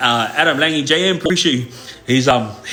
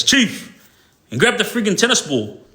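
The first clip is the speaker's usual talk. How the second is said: mock yell, higher, calling across the yard; calling out to the guard; 6 semitones higher than usual. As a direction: shout it across to the ignoring guards. Yelling at guards to fetch ball.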